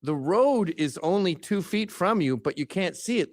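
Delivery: normal talking voice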